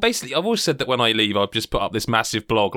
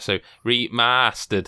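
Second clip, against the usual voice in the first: slow, careful stab at a Northern "remastered"; attempted Northern accent; much slower than usual. Shown as a demonstration. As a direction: draw out "remastered" like a Northerner would. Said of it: "So trying to do that".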